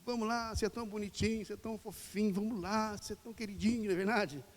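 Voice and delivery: butter them up like a pet; mock cajoling of a reluctant person; coaxing flattery. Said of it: "queremos insistir com as pessoas".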